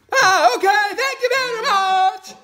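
eager little frog. Acted. New frog mother asking mama hen for advice, squeaky high frog voice. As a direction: pipe it up high like a tiny frog.

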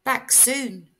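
a little owl reassuring the others, high; hopeful baby owl. Acted. Sarah tells her brothers their mother will return, high and hopeful. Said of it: "said Percy".

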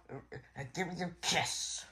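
unvoiced whisper; soft whispered kiss request. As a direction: breathe it secretly. Romantic story moment, whispered.

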